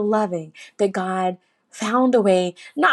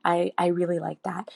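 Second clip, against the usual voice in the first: whispered; 6 dB quieter than usual. Retold or imitated. Intimate thanks to God in prayer.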